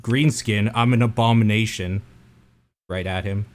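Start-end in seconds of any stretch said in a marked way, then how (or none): 0.0-2.0 loud, defiant shout at the giant; half-orc yells his defiance at the captive giant; yelling. Acted. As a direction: throw it right in his face. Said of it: "I just yell at him".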